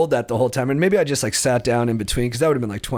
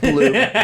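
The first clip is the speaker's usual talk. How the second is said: imitated plop; 2 semitones higher, 5 dB louder than usual. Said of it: "just bloop".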